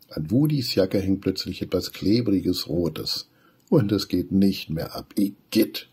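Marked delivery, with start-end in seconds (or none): 3.7-5.9 startled disgust. Acted. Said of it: "ruft Wudi erschrocken".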